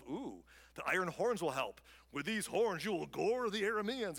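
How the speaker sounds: hammed-up show-off prophet; lightly theatrical proclamation; mock dramatic. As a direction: ham it up a little, playing to the crowd. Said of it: "he's all being dramatic".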